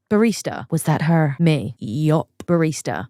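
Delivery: a light put-on Brooklyn accent in the quoted dialogue; a hint of Brooklyn accent. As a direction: lightly play two New Yorkers in a Brooklyn accent. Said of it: "Sorry for that accent there".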